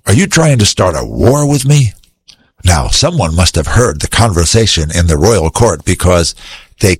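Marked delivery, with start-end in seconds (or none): 0.1-1.9 upset king. Acted. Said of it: "the king of Israel was very upset".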